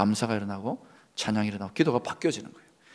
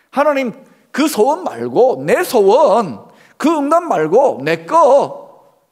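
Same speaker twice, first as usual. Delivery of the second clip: loud, high, drawn-out demand; hammed-up pleading for one's own way; insistent childish demand; 7 semitones higher, 8 dB louder, much slower than usual. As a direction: stretch each word in mock stubborn insistence. Acting out refusal of God's will.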